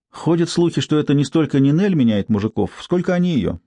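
a hint of a brassy street woman; coarse street woman. Narrator voices Tsypka.

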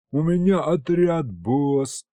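high, happy insistence on отряд; joyful correction. Acted. Demon gladly correcting the boss, joyful. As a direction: nod along gladly while correcting. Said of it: "радостно закивал рожками бес".

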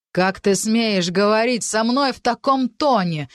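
drawn-out outrage at the insolence; slow indignant rebuke; outraged. Acted. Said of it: "искренне возмутился Адриан".

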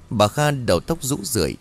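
ordinary delivery

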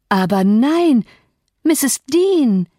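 put-on surprised servant girl crying out; Zilla's exclaiming voice. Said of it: "rief sie".

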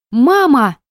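put-on high, loud child's cry of Мама; a small daughter crying out for her mother; little girl calling. A narrator's reading. Daughter hears her mother on the phone, high loud child's call.

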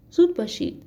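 high, urgent call of زود باشید; urgent hurry. Acted. Princess hurries the servants. (زود باشید با عجله و صدای خیلی زیر)

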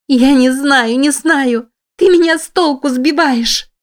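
a terrified woman shrieking under torture; panicked cry. Acted. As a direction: cry it out high in pain and terror. In pain, hair pulled.

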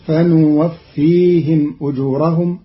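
فنوفيهم with nun in place of ya; Qalun reading. Shown as a demonstration. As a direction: say فنوفيهم starting fa-nu. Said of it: "فتصير".

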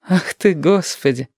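high, slow, smiling exclamation; cheerful smile. A narrator's reading. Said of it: "весело улыбнулась мама".

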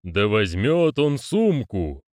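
very slow, solemn decree; drawn-out thundering ritual command; rumbling distant voice. Acted. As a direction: boom the order slowly from afar. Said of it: "прогрохотал далёкий голос".

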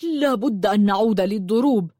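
firm, sharp demand; acted sharp retort; sharp insistence. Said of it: "قال بركات بحدة".

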